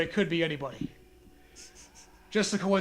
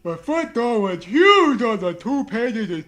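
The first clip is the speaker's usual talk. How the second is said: laughing while reading; 3 semitones higher, 7 dB louder, slower than usual. Real, not acted. Reading creepypasta through laughter.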